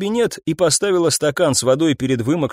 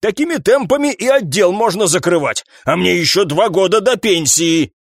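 high, fussy voice of an aging police captain; grumpy old captain; 8 semitones higher than usual. Acted. Captain scolding his detectives, high and fussy. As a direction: grumble like a boss near retirement.

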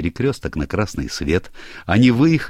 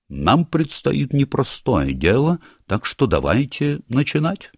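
gnome leader voice; 8 semitones higher than usual. Acted. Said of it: "произнёс Ринсмангл".

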